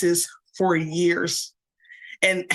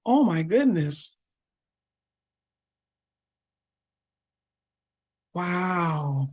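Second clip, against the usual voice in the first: hushed, slow, moved and awed by the chat; emotionally moved; much slower than usual. Real, not acted. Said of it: "I'm getting a little emotional".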